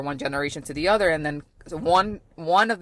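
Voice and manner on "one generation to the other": one generation to the other rattled off fast; fast repeat. Real, not acted. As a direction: repeat it quickly as emphasis. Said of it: "repeated faster".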